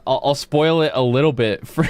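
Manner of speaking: words breaking into a laugh. Real, not acted. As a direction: spoil it while giggling. Laughing mid-sentence, then restarts.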